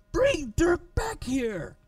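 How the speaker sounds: high, slow, bellowed command; bellowing from shore. A narrator's reading. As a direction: roar it across the water. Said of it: "he bellowed from shore".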